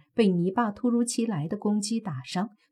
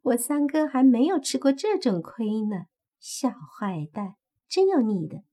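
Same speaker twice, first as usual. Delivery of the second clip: playful, coquettish praise; red fox flirts with Mo Fan, teasing and coy; flirty teasing; 5 semitones higher than usual. Acted. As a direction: tease him like a sly vixen. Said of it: "看着莫凡笑道".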